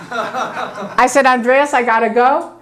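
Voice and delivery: a laughing, relieved goodbye. Real, not acted. Telling her friend Andreas she's leaving, laughing. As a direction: laugh through the words.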